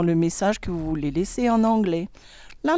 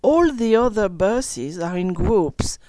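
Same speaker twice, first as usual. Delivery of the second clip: story reading. Acted. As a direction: read it like to children. Reads story to class. (lecture d'histoire pour enfants)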